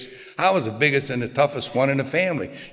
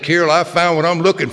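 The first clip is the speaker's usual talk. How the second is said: retold eager announcement, a bit louder; 4 semitones higher, 6 dB louder than usual. Husband comes home to crying wife with his news, eager. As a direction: proudly break the good news, lifted voice.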